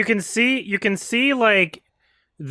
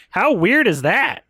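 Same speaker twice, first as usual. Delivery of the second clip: sarcastic mock reading of "How weird is that?"; mocking the line; 6 semitones higher than usual. Shown as a demonstration. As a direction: parrot the line to show how bad it is. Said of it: "What a fucking awful line".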